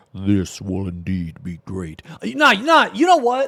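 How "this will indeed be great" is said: exaggerated, super deep, bottomed-out put-on bass voice. Showing how they want their palico's voice to sound: super deep voice. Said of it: "I want it to sound like super fucking deep".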